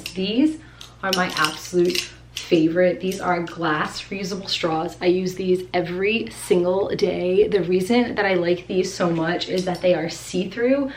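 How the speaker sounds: winded after running up stairs; a little breathless, panting lightly; out of breath. Real, not acted. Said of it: "I'm out of breath from, like, running up and down the stairs".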